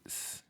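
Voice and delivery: "s" as a soft trailing hiss; "s" said as the bare consonant that ends the word; fading S. Shown as a demonstration. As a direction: let the "s" sound fade away. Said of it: "se difumina al final con el".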